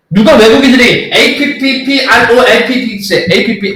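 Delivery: slow letter names 에이피피 알오 에이피피; mock rote spelling, slow. Shown as a demonstration. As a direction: drag out 에이피피 as if reciting letters. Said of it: "이렇게 안 한다고요".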